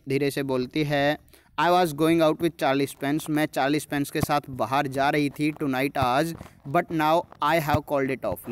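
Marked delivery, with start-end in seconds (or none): none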